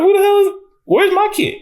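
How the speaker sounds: high, frantic mock voice of the queen; mock panic. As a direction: squeal it out in a panicked falsetto. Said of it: "She was like".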